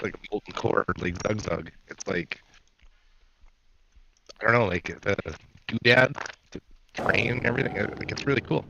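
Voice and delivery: glitchy robotic connection voice. Real, not acted. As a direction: sound like a choppy robotic mic. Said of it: "you really are robotic right now".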